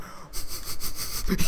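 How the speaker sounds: voiceless mock wheeze of laughter; soft breathy snigger, mimicked; imitated stifled laugh. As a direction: imitate a weird, suppressed laugh. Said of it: "but he was laughing".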